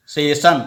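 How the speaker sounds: सेशन with a palatal sibilant in the last syllable. Shown as a demonstration. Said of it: "तालंब स्व के साथ करेंगे".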